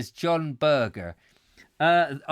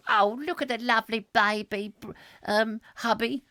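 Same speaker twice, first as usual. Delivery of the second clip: high fussy wife voice; Mrs Stoker voice; 5 semitones higher than usual. Acted. Doting mother cooing over newborn, high prim voice. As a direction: play the doting Victorian wife, pitched up.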